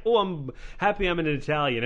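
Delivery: put-on half-hearted Italian accent; barely attempted, botched Italian accent; bad Italian accent. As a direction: put on a poor Italian accent without really trying. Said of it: "That is the worst Italian accent ever".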